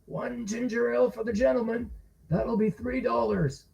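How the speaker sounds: barkeep serving a drink; bartender voice. A narrator's reading. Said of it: "the barkeep said".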